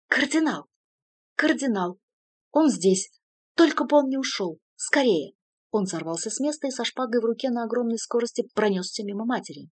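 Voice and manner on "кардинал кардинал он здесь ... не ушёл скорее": high, loud, overjoyed shouting; rapturous cry. A narrator's reading. Artyu spotting the cardinal, rapturous shout. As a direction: yell it with sudden hope. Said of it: "восторженный крик".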